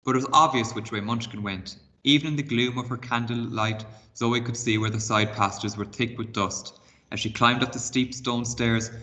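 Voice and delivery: expressive read-aloud storytelling; reading a chapter book aloud to pupils; story narration. A narrator's reading. Teacher reads story aloud.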